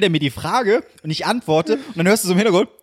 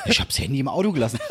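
low-pitched dad impression; imitated Hessian father; 4 semitones lower, 3 dB quieter than usual. Father excusing the missed call, imitated in low Hessian. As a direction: lower your voice into Dad's. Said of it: "andere Personen auf Hessisch nachmachst".

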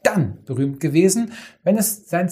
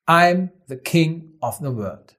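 slow declaration; slower than usual. Retold or imitated. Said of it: "der bekannteste Satz aus dem Film".

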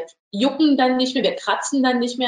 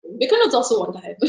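laughing; much faster than usual. Real, not acted. Laughing at host losing thread.

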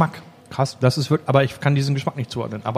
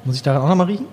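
quick hushed whisper; faster than usual. Real, not acted. Hushed question while tasting.

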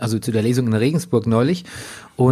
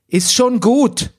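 much higher, slow, patronising; mock condescending cyclist; 10 semitones higher, 4 dB louder, much slower than usual. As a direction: soothe him like a child. (herablassende Radfahrerin, viel höher und langsam)

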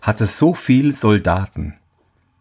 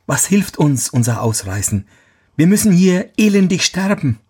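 despairing soldier voice; 10 semitones higher than usual. Acted.

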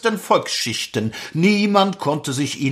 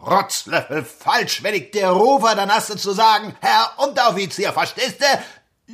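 barking drill sergeant; 3 semitones higher than usual. Acted. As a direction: bark at the recruit like a sergeant. Sergeant scolds the recruit.

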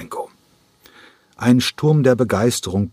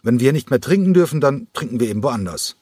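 defiant threat; 6 semitones higher than usual. Acted. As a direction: throw the threat back at the host. Angry guest threatens to leave. (trotzige Drohung, höher und lauter)

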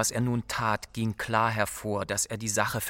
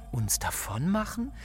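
startled echo; 3 semitones higher than usual. Acted. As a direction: echo it in disbelief, lifting sharply at the end. She echoes the proposal, startled.

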